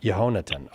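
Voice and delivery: Yehonatan as yeh-HO-na-tan, with the h sounded; repeated correct pronunciation. Shown as a demonstration. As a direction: echo Yehonatan, stressing ho. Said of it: "accent was on the ho".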